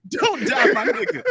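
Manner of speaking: high, loud mock Asian accent; hammed-up Asian accent. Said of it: "in the Asian accent".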